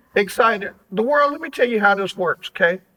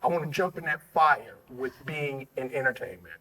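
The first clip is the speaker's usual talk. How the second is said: lower, softer dreamy musing; softly voiced daydream; dreamy inner voice; 5 semitones lower, 7 dB quieter than usual. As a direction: muse softly like inner wishes. Host voices hopeful inner thoughts.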